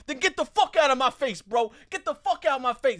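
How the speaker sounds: imitated high, loud angry shouting; angry confrontation. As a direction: get right in his face, acting it out. Acted drunk man squaring up.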